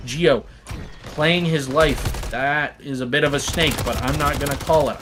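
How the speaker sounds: brisk live esports caster call; play-by-play commentary. Acted. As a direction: call the action as it happens.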